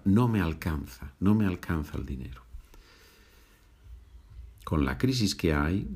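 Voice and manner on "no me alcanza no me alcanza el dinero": quick street phrasing. Shown as a demonstration. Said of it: "en la calle vas a escuchar".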